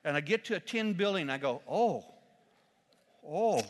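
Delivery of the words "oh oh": startled, dismayed groan; alarmed oh. Retold or imitated. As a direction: react to a sinister sign with alarm. Seeing 666 on building.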